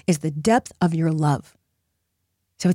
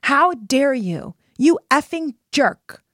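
slow, higher, deliberate anger; angry letter; 5 semitones higher, much slower than usual. Shown as a demonstration. Demonstrating an angry letter to someone who hurt you: slow indignant fury. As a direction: spell out each furious word slowly. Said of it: "the love letter sounds like this".

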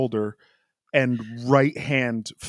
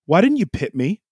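higher, pressed, complaining radio rant; frustrated Charles rant; 5 semitones higher than usual. Retold or imitated. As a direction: imitate an angry driver demanding to know why. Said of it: "that was the tone".

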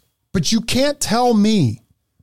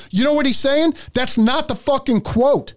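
raised, incredulous and heated; exasperated outrage; 6 semitones higher than usual. Real, not acted. Host fuming at a misquoted line. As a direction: call out the misquote.

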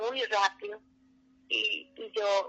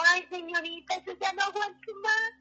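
desperate plea; 9 semitones higher than usual. Retold or imitated. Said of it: "le dije en el último momento".

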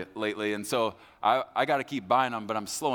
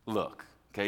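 calm, matter-of-fact. Shown as a demonstration. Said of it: "I think he said it just like this".

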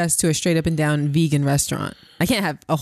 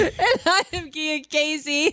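laughing; 10 semitones higher than usual. Real, not acted. Sign-off laughing.

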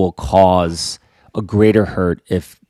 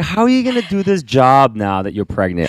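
retold disbelief; 6 semitones higher, 4 dB louder, faster than usual. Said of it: "I was like".

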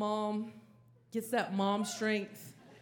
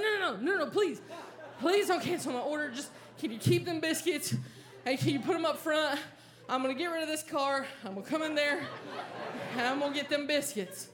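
higher and urgent, laughing, begging; pleading; 4 semitones higher, faster than usual. Retold or imitated. Driver begging the worker not to cancel: higher, urgent pleading. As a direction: beg her to keep the order.

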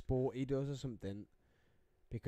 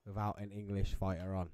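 lower, deliberately separated words; careful enunciation; 6 semitones lower than usual. Shown as a demonstration. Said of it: "Spit your words out".

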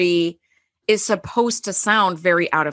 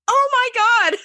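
high excited gasp of realisation; a sudden delighted shock; squealing "oh my God" at a discovery; 13 semitones higher, slower than usual. Retold or imitated. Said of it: "And I went".

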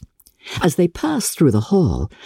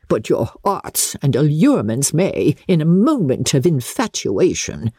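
lightly raised, imperious grande dame; a hint of a proud aristocrat; haughty Lady Catherine; 3 semitones higher than usual. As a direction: talk down to her from a height.

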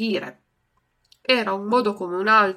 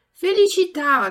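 lightly voiced puppet boy, higher and louder; a touch of Pinocchio; 9 semitones higher, 9 dB louder than usual. A narrator's reading. Pinocchio blesses the sneezing puppeteer, a touch eager. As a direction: chirp it like a small puppet. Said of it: "dice Pinocchio".

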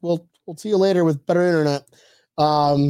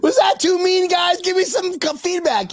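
high laughing voice, breaking through giggles; laughing squeal; 13 semitones higher than usual. Real, not acted. Host asking chat for feedback while laughing hard. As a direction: ask it while still cracking up. Laughing after being mean.

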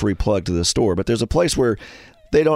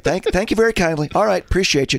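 higher, sweetly polite sign-off; polite phone voice; 7 semitones higher than usual. Retold or imitated. Caller wrapping up a voicemail, over-polite and higher. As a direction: switch back to courteous customer voice. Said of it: "the voicemail was like".

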